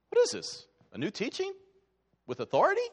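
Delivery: high, astonished questions; the crowd reacting, astonished; amazed. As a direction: gasp it out in wonder.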